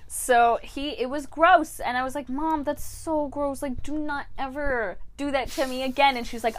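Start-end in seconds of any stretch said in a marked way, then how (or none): 2.3-6.2 high-pitched, appalled telling-off; retold disgusted protest; indignant scolding. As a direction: scold your mom, grossed out and raised in pitch. Acted scolding of mother, disgusted.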